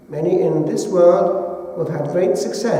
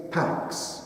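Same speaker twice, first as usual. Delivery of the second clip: whispered Pax; 11 dB quieter than usual. Shown as a demonstration. Preacher to listeners, whispering the hushed answer. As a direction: breathe "Pax" almost soundless. Whispered key word again.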